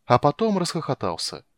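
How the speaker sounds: ordinary delivery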